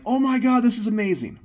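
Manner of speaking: high, loud gushing squeal; mock excitement. Imitating excited gun fans squealing over the ruling. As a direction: gush like a thrilled fan. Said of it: "everyone is like".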